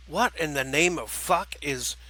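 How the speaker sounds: slow, puzzled villain voice; drawn-out villain's demand; startled villain. Acted. Villain hearing a strange trilling behind him, startled.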